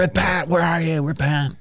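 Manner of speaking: high-pitched pretend dog call; mock calling out. Host playfully calling his dog Repent, mock calling out.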